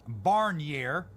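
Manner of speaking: Barnier in a mock Iowa accent, flat Midwestern "Barnier" with a rising end. Shown as a demonstration. Host mangles French name on purpose, mock Iowa accent. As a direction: say "Barnier." like a plain-spoken Iowan. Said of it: "with an Iowa accent".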